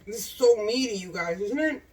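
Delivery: talking with a mouthful; words through a bite of burger; mouth full. Real, not acted. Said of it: "Don't talk with your mouth full".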